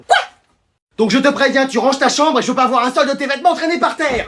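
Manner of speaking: high-pitched scolding mother; mère qui crie. Acted. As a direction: lay down the law to your kid, high. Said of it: "t'as fait que de me crier dessus". (mère qui gronde, voix haut perchée)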